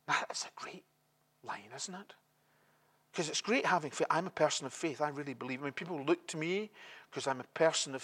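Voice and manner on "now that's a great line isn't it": drops to a sudden whisper. Real, not acted. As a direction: lean in and whisper the aside. Sudden hushed aside to congregation.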